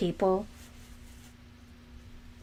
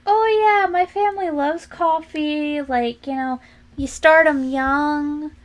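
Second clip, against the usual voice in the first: higher, louder, breezy fake-casual tone; mock breezy boast; 4 semitones higher, 4 dB louder than usual. Teasing Floridians with a breezy coffee-milk boast. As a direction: sell the lie with easy cheer. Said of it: "'cause I'll be like".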